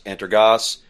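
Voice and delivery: "Antergos" ending in an open "goss"; varied pronunciation. Shown as a demonstration. Joking over distro names, "Antergos" ending in "goss". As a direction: say "Antergos" with a short, open last vowel. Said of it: "we laugh about that all".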